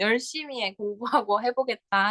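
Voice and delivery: plain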